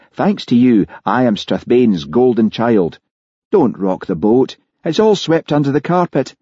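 lightly acted, insistent brush-off; lightly voiced policeman friend, exasperated. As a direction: urge a friend to leave it alone.

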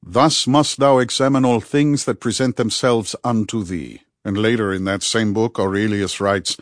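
lightly voiced learned friend quoting scripture-like wisdom; Rudy, measured and philosophical. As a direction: deliver old philosophy with measured emphasis.

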